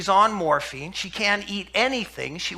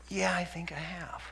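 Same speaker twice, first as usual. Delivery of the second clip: faint whisper; 10 dB quieter than usual. Retold or imitated. Dying woman answers softly.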